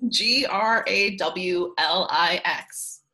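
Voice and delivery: G R A W L I X each letter slow and separate; spelled out slowly. Shown as a demonstration. Spelling the topic word for the listeners, slow and deliberate. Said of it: "spelling the word out".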